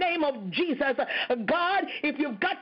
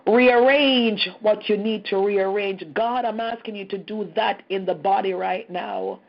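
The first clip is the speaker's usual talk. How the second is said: slow, with CHANGE and REARRANGE punched loud; emphatic plea; 4 dB louder than usual. Real, not acted. Preacher commanding God to rearrange the church, slow emphatic plea. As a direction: hammer each command word, then draw out the rest.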